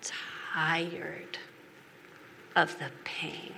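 slow, broken whisper; tearfully confessing to her husband; crying. Retold or imitated. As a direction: barely get the words out through tears. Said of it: "I cried and I said".

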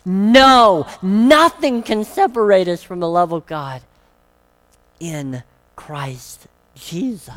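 loud, firm declaration with NO hit hard; ringing declaration of the truth; emphatic declaration. Shown as a demonstration. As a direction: proclaim it as final truth. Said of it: "It ends the section with an emphatic statement".

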